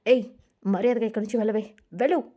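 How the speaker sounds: husband orders his wife out, understated yell; angry shout. Acted. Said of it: "అని గట్టిగా అరుస్తాడు". (కొంచెం గట్టిగా కోపంగా అరవడం)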